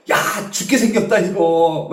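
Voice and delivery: mock outcry of doom; imitated panicked shout. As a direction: act out a doomed sailor's cry. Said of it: "뭐라고 소리 질렀을까요?".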